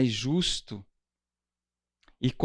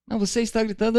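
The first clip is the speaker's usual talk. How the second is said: higher, raised accusation of yelling; mock accusing shout; 8 semitones higher, 4 dB louder, much faster than usual. Spouse accusing partner of yelling, raised and high. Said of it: "Quem nunca ouviu alguém gritar assim".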